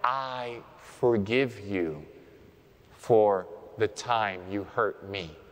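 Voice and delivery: tender demo of forgiving; gentle modelled prayer. Shown as a demonstration. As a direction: say it slowly like a real prayer. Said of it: "and say now".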